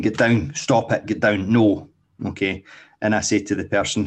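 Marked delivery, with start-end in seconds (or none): 0.0-1.9 louder mock scolding of a jumping dog; imitating stern commands. Owner scolds a new rescue dog, louder mock scolding. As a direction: bark the orders like a frustrated owner. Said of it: "I hear people saying".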